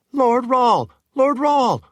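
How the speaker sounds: high, loud call across the hall; eager woman calling Lord Rahl across the entryway. Acted. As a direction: call out to get his attention. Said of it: "one of them called out".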